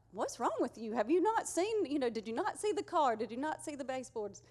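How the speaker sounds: mock exasperated husband, rising high mid-way; half-playful frustrated questioning; aggravated husband. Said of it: "he was getting aggravated".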